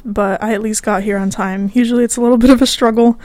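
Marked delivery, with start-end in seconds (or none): 0.0-1.7 winded from a run; out of breath. Real, not acted. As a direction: speak between quick breaths. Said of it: "so I'm a little out of breath".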